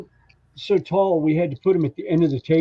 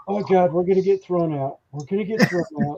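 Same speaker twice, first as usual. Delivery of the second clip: higher, hurried fretting; a touch of mock panic, fast on the repeat; retold mild panic; 3 semitones higher than usual. His own panic at the table.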